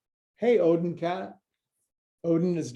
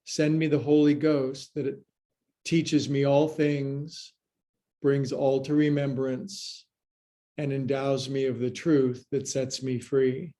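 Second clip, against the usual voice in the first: prayer. Acted. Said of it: "old-fashioned biblical language".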